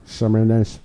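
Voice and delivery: imitating a French pronunciation of the name; mock French accent. Co-host echoing the winner's name in mock French accent. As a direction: copy the host's put-on French accent. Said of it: "why he put French accent".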